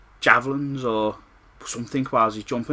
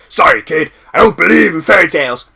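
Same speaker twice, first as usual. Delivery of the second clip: smug villain taunt; 5 semitones higher, 12 dB louder than usual. Retold or imitated. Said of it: "Freddy stops and goes".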